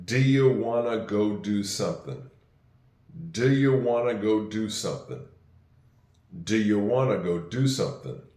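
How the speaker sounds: "Do you wanna go do something" said slowly; slow it down so the class can follow; teacher leading a slow choral repeat; say it slow together. Shown as a demonstration. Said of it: "We'll say it kinda slow together".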